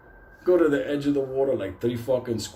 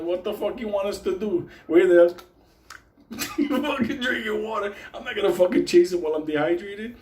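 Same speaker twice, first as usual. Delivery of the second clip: high-pitched, laughing mock protest; exasperated; 7 semitones higher than usual. Stranded man answering friend's cries, mock exasperation. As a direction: protest in a raised, incredulous pitch.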